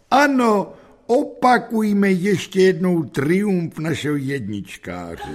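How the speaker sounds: high, loud, drawn-out proclamation; exclaiming headmaster. A narrator's reading. Headmaster hailing the class's top pupil, exclaiming loudly. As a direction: cry it out grandly, starting very high.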